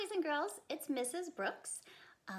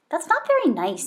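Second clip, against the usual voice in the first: stern mother; 5 semitones higher, 17 dB louder than usual. Acted. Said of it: "Her mother frowned".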